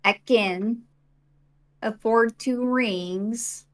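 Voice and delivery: put-on slow, hammy French accent; bad French accent. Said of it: "Is this Nemo's accent?".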